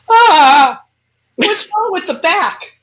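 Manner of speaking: hammed-up whiny demon groaning about an aching body; mock-complain as a demon stuck in a creaky body; demon's complaint. Demon grumbling to its new host, lightly whiny. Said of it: "a demon jumps into my body and goes".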